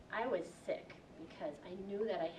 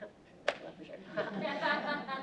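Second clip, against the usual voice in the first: very slow, higher, laughing through the words; 8 semitones higher, 4 dB louder, much slower than usual. Real, not acted. She laughs at calling herself a spotless leopard. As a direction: giggle it out at your own joke. Laughs at her own metaphor.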